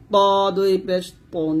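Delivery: ত and তন with a heavy emphatic T; full, heavy Arabic T opening তন; thick T. Shown as a demonstration. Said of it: "মোটা করে".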